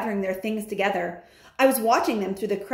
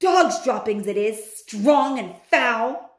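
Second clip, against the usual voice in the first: loud witch; 3 semitones higher, 4 dB louder than usual. Acted. Witch agreeing about the smell.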